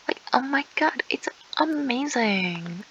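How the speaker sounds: sarcastic mock delight, slowing down at the end. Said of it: "I am being sarcastic".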